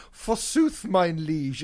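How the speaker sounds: lightly hammed olde English; mock medieval courtier; hammy stage actor. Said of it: "with sort of curly long hair going".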